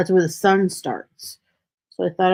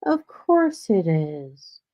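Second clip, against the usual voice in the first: slow, drawn-out Captain Obvious sarcasm; sarcastic; much slower than usual. Acted. Streamer acting out their typical comments, sarcastic. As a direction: stretch out the obvious with mock resignation. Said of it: "it's just sarcasm".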